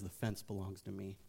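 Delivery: menacing Satan. Acted. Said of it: "He says".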